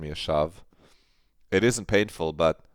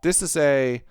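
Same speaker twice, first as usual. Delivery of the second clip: slow, higher, forced casual denial; defensive; 6 semitones higher, slower than usual. Acted. Claire denying she plays with toys, slow and defensive. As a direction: fake nonchalance, stretched out.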